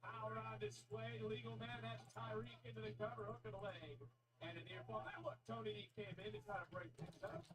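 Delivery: live ring commentary, building up; wrestling commentator. Acted. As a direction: call the match live.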